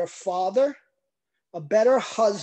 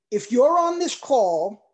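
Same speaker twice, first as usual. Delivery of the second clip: passionate; 3 semitones higher, 4 dB louder than usual. Real, not acted. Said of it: "I'm sound like I'm getting angry, I'm not. This is the passion".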